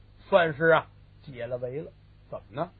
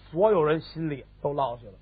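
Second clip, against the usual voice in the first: plain reading voice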